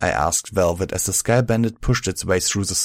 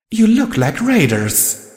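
cautious; 14 semitones higher, 5 dB louder, slower than usual. A narrator's reading. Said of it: "pointed out cautiously".

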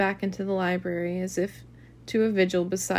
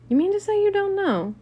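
genuinely surprised, pitch leaping up; honest surprise; 11 semitones higher, 4 dB louder than usual. A narrator's reading. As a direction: stretch it out in high-pitched disbelief. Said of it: "honestly surprised".

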